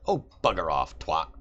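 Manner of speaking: irritated British devil, lightly done; British accent. Acted. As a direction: brush him off in British English. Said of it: "I don't know why Asmodeus is British".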